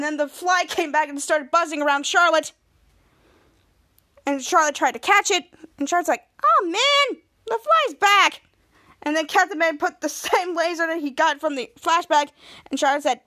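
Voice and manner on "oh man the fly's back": high-pitched whine of complaint; acted exasperation. Charlotte seeing the fly return, mock exasperation. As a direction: groan it out, pitched well up.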